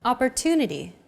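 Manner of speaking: Opportunity with a longer "tu" syllable; stress on TU. Shown as a demonstration. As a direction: lean on the "tu" in Opportunity. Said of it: "it's pronounced longer than all other syllables".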